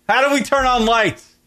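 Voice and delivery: high-pitched, put-on helpless plea; mock clueless question. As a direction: play a baffled follower asking the guru. Acted naive question to guru.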